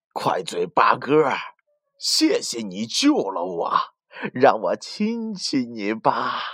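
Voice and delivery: slow, sweetly sinister wolf; sly wolf. Acted. Bad wolf fakes thanks to the myna, slow and sly. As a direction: fake gratitude with a predator's purr.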